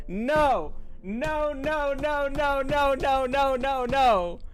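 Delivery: high, loud repeated no's in disbelief; can't believe what he's hearing, keep yelling no; disbelieving shouts of no. Real, not acted. Streamer hearing about the engraved gift, shouting no in disbelief.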